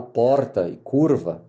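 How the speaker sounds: São Paulo accent on "porta" and "curva", made clearer; adapted São Paulo accent. Shown as a demonstration. Mineiro lawyer making himself understood, São Paulo accent. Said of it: "pra deixar mais claro".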